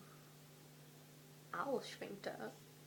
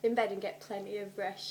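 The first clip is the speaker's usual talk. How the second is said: mother's warning; 6 dB louder than usual. Acted. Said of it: "she had warned him".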